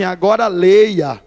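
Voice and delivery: slow, low mock challenge; spiteful taunt. Rival's spiteful retold taunt.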